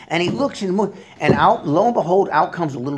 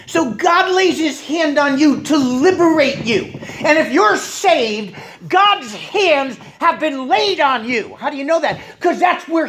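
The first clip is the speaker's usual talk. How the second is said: forceful preaching; 9 semitones higher than usual. Real, not acted. Preacher assuring congregation of God's hands, forceful proclamation. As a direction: proclaim it with rising fervour, leaning on key words.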